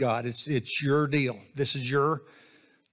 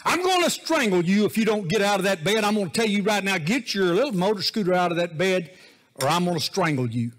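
high, loud singsong threat; hammed-up angry parent voice; mock threatening parent; 5 semitones higher, 3 dB louder than usual. Mock threat to sleeping kids.

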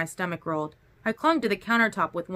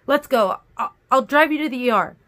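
higher, louder, pressing offer; firm, raised-voice urging; urgent insistence; 5 semitones higher, 6 dB louder than usual. A narrator's reading. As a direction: take charge in a worried rush. Urgently offers hospital drive.

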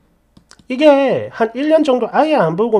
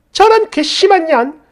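higher-pitched indignant outburst; outraged mother-in-law; 6 semitones higher, 4 dB louder than usual. Acted. Mother-in-law cursing a runaway daughter-in-law, outraged. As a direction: spit out an indignant curse.

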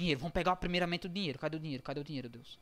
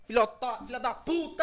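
angry shout; 3 semitones higher than usual. Real, not acted. Cursing after dying.

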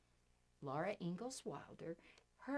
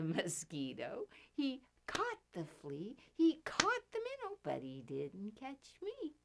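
finger play rhyme. Pretend. Reciting children's finger rhyme.

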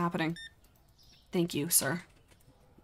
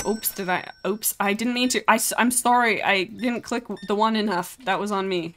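higher, louder, flustered sorry; flustered apology; 3 semitones higher, 5 dB louder than usual. Pretend. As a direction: blurt a mock-panicked apology to a customer. Flustered apology to a game customer.

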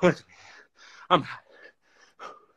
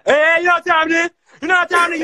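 hyped; 2 semitones higher, 4 dB louder, much faster than usual. Real, not acted. Hyped challenge after the flip.

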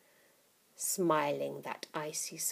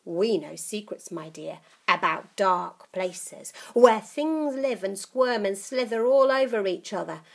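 put-on menacing old witch; 2 semitones higher, 6 dB louder than usual. Grandma menacing.

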